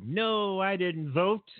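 a lightly hammed-up proud non-voter; mock proud. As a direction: say it like you're proud of not voting.

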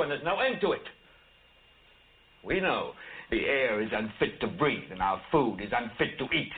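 simmering anchorman rant; Howard Beale rant. Acted. Network rant recreation.

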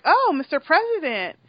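prim, formal hello on the phone; formal greeting. Retold or imitated. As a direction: greet him stiffly, all business. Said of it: "she's like".

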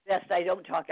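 hoarse, raspy voice after throat surgery; rough, worn-out throat; gravelly voice. Real, not acted. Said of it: "I sound like Gravel Gertie".

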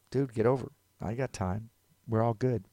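relaxed, unhurried go-ahead; easygoing reply. Acted. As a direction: casually wave the other driver in. Easygoing reply to the frantic driver.

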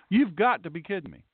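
"got" stressed, pitch falling after it; emphatic disbelief. Shown as a demonstration. Pastor repeating his added line for emphasis, incredulous. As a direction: hit "got" as if you can't believe it. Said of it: "I'm adding that for emphasis".

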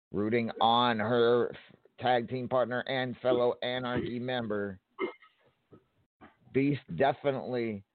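brisk play-by-play call; wrestling commentator. Acted. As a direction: call the match blow by blow. Calls the match play by play.

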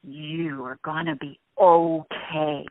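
steady them with a strong slow voice; strong reassurance. Shown as a demonstration. Answering a frightened person, with strong reassurance. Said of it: "Put that strength and power in your voice".

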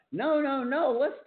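high-pitched mock alarm; retold panic. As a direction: act out frantic protest, high. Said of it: "I started panicking".

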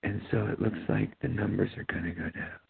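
a lightly voiced flat, soft announcement; monotone doctor. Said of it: "someone who talks like this".

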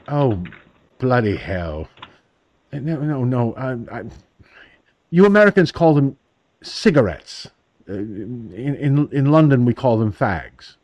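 lightly imitated flustered London bobby; stammering apology in a put-on British accent; a hint of a British policeman's accent. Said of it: "really, really cool accent".

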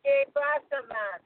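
Portuguese accent slipping into Rastafarian; botched Portuguese accent. Shown as a demonstration. Woman attempting Portuguese on request, sounding Rastafarian instead. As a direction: fake Portuguese, landing nearer Rastafarian. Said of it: "you're just going Rastafarian".

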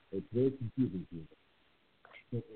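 glitchy, breaking-up audio; cutting out. Real, not acted. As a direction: voice dropping out on a bad line. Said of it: "oh, he cut out".

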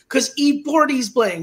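put-on high, loud, slow kid voice, "forty's" starting with a P; child's mispronunciation. Son explains why he must go, child's "pordy's" for "forty's". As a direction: imitate a little kid saying "forty's" as "pordy's". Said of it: "He couldn't even say forty".

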